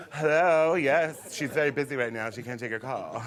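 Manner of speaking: loud, singsong hello easing into brisk brush-off; casual secretary. Acted. Boy playing executive secretary answering a call, airily important. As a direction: play a self-important secretary on the phone. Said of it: "Remove my earring very casually and say".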